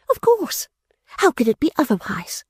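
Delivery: very high mocking "Of course!"; Fanny mocking her father's grief; sarcastic exclamation. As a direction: sneer with sarcasm. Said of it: "exclaimed the irrepressible Fanny".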